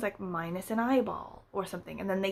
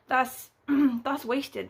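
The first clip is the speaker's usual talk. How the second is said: mock solemn verdict; 4 semitones higher, much slower than usual.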